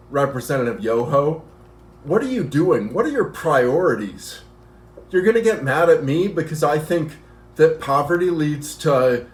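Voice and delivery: sketch the comeback she could have given, barely acting it; mild mock politician's retort; imagined rebuttal speech. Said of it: "she could have stood up there and said".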